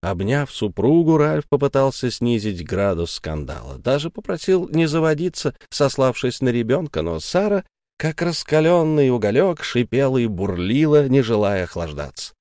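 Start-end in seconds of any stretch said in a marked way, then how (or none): none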